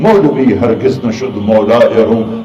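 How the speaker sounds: slow, measured Persian verse recital; poem recital. Acted. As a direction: chant the couplets slowly and gravely. (دھیمی رفتار سے فارسی اشعار کی تلاوت)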